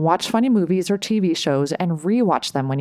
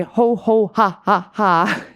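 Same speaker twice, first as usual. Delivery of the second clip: louder laughing chant; 3 semitones higher, 4 dB louder, slower than usual. Shown as a demonstration. Repeating the laughter yoga chant for viewers, laughing. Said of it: "So you say".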